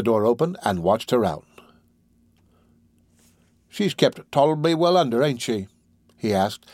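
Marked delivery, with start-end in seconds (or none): 3.7-5.7 higher-pitched, self-satisfied question; smug keeper's tone. Acted. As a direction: lightly boast like an animal tamer. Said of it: "in the tone of a keeper".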